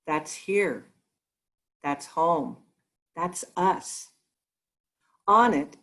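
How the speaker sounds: measured recitation with deliberate pauses between phrases; solemn reading aloud. Acted. Reverend reading Sagan's words to her congregation before meditation, solemn and measured. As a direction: read it as a reflective passage, letting each phrase stand.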